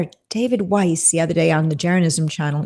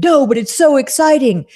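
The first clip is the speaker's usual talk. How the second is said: mock gushing reporter; 6 semitones higher, 4 dB louder than usual. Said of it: "And they said".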